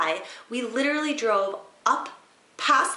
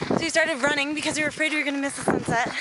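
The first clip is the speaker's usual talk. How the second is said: breathless at high altitude; 5 semitones higher, faster than usual. Real, not acted. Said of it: "we're so out of breath".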